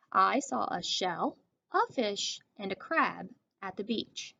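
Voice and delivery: slow read with a pause after each item; pausing at commas. Shown as a demonstration. Teacher reading aloud to class, slow with pauses. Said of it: "when I read it, I sort of paused".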